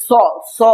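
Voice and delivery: স held as a long hiss; a drawn-out hissing স. Shown as a demonstration. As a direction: hiss the স sound out. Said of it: "এই যে hissing sound আসছে".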